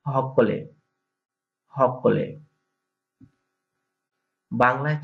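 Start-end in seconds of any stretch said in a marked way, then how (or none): 0.1-2.4 হকলে with an h where সকলে has s; Barisal dialect word. Shown as a demonstration. Teacher repeats the Barisal form হকলে. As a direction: say হকলে, the s turned into h. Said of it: "আর এটা বরিশালে হবে".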